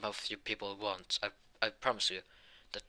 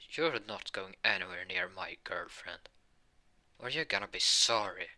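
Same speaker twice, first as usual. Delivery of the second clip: raised, drawn-up voice warning a rival off; protective warning; 3 semitones higher than usual. Acted. Asta steps in, threatening the rival.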